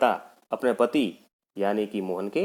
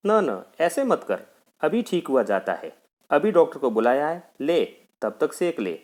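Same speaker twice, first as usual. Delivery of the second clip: coaxing mother; 4 semitones higher than usual. Acted. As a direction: gently hush the boy in pain. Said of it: "माँ पुचकार कर".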